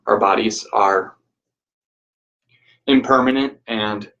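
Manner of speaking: measured, even guiding voice with long pauses; guided meditation. Real, not acted. Teacher guiding listeners to reflect on change, guided meditation.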